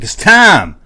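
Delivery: put-on eager kid at the door; excited kid. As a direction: burst in on your friend all excited. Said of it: "I was like".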